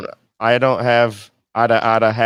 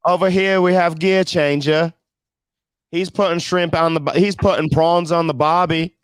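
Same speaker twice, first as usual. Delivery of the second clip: mock Australian; 4 semitones higher than usual. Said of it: "semi-fluent in Australian".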